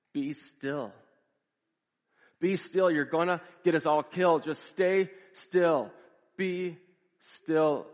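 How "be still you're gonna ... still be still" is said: high, loud pleading shout; retold yell. Husband on the raft yells at his panicking wife, loud and high. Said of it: "he's yelling at the top of his lungs".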